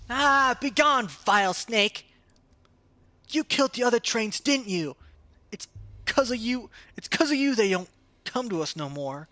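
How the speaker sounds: put-on high, loud child hurling accusations; a brave little kid shouting at a villain; angry kid voice.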